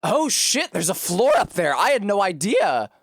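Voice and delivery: sudden high excited outburst; surprised. Real, not acted. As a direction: genuinely caught off guard. Surprised by floor in game.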